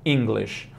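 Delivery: He speaks English said slowly and clearly; slow model sentence. Shown as a demonstration. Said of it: "Então a frase é".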